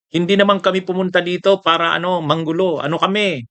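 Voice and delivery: a touch of mocking sincerity; mock Respicio. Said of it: "sabi ni Harold Respicio". (pabirong panggagaya)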